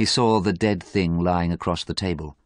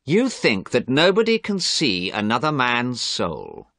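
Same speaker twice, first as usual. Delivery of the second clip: slow, louder, mocking cruelty; hard and cruel; 5 semitones higher, 3 dB louder than usual. Dorian mocking Basil's belief, hard and cruel. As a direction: throw his own words back at him slowly and coldly. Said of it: "Dorian's voice was hard and cruel".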